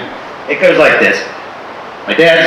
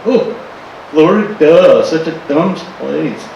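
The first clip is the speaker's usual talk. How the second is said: mocking audience. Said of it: "I know you're going".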